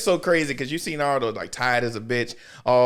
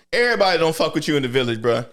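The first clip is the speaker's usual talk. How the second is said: ordinary delivery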